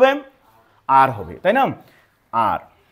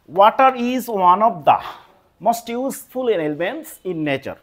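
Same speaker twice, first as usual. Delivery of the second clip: slow dictation reading; much slower than usual. Shown as a demonstration. Teacher reading board example aloud.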